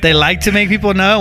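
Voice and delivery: rising, disbelieving question; incredulous echo. Real, not acted. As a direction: toss the line back like you can't believe it. Co-host echoes it back in disbelief.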